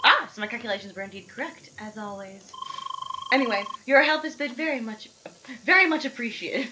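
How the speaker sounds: lightly voiced lady scientist; matter-of-fact scientist. Scientist lady greeting the seeker, matter-of-fact. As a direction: state it like a brisk researcher. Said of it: "matter of fact scientist lady".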